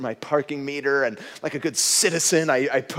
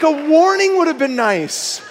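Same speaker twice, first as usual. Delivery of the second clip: high, loud, laughing protest; amused plea for mercy; laughing complaint; 11 semitones higher, 5 dB louder than usual. Retold or imitated. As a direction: laugh through a mock grievance. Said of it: "I'm like".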